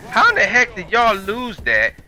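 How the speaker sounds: can't believe they lost it; exasperated disbelief. Retold or imitated. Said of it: "So now I'm sitting here like".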